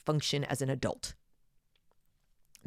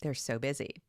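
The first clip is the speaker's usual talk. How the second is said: put-on Valley Girl voice; 9 dB quieter than usual. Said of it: "that's my little Valley Girl voice".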